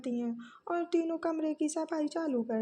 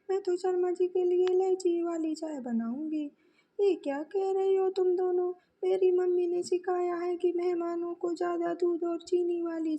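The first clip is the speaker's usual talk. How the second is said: a bit higher and louder, sisters-in-law squabbling; bickering bahus; 3 semitones higher, 4 dB louder than usual. Acted. Bahus bicker in the kitchen over Sharma ji's tea, lightly raised. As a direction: argue over how the tea should be made.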